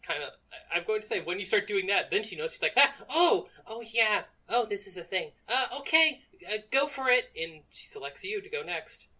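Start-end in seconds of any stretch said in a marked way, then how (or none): 2.8-7.3 high, loud acted surprise; startled into hurried agreement, pitched up; flustered realization. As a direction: play sudden discovery, voice jumping high. Voicing Zoe suddenly noticing.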